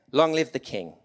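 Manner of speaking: proud ringing cry. A narrator's reading. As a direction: call it out like a herald. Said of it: "he cried".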